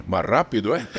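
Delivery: light Italian accent, imitated; hint of an Italian accent. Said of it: "aquele sotaque italiano". (sotaque italiano leve)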